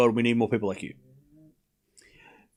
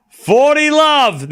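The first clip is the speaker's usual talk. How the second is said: slow drawn-out call; 8 semitones higher, 5 dB louder, much slower than usual. Shown as a demonstration. Streamer repeating the score, slow and drawn out. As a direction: stretch forty love slowly.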